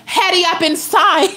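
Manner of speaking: mock an impatient Nigerian elder's accent; imitated Nigerian accent. Imitating the lady at the end of the table, mock Nigerian accent. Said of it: "I'ma stop doing that accent".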